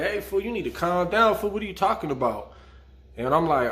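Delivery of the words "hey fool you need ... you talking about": cellmate warning, pitched higher; voicing the cellmate, raised and tense; mock warning from the cellmate; telling me to calm down. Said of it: "he's just like".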